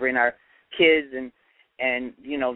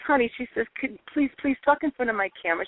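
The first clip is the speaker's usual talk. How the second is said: high gushing Southern lady voice; 9 semitones higher, faster than usual. Retold or imitated. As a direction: play the sweet pushy Southern tourist. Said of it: "she's like, she says".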